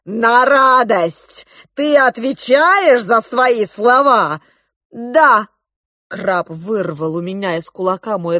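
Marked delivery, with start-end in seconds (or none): 0.1-4.4 slow, loud sneering echo of радость; the crab mocking the mother's plea; mocking repeat. A narrator's reading. 4.9-5.5 loud, higher affirmation; the mother swearing to it; firm yes. A narrator's reading. Mother answers the crab.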